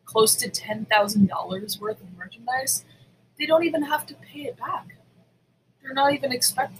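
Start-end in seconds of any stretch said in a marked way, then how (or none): 3.4-6.8 whispered in disbelief; a hushed, disbelieving aside in mid-rant; incredulous whisper. Real, not acted. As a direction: drop to a stunned whisper. Indignant rant about rich thief.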